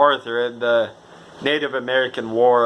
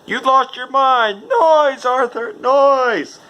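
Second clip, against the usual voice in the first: high, loud frantic shouting; imitated yell; 13 semitones higher, 4 dB louder, much slower than usual. Arthur yells at Dutch, high loud frantic shout. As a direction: yell it over gunfire in a panic. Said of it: "Arthur goes".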